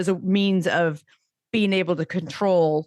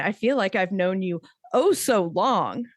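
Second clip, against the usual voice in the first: lilting swoop on "oh so long"; mocking quote. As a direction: read the text with mock swooning emphasis. Mocking a texted line she reads.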